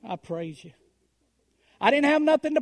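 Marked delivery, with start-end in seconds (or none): 0.0-0.7 lower, softer, barely voiced; soft whisper-like praise. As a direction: breathe it out almost in a whisper. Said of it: "I just let it kind of whisper".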